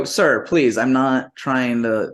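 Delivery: retold appeal to stay calm; polite pleading. Guest pleading with the motel clerk, polite. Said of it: "this is exactly how I say".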